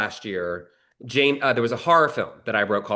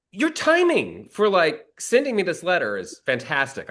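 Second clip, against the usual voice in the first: sarcastic retort; 6 semitones higher than usual. Retold or imitated. Sarcastic reply to studio rejection.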